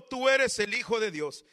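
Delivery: loud, high cry of demons. Acted. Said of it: "dando voces, diciendo". (a voces, fuerte y agudo)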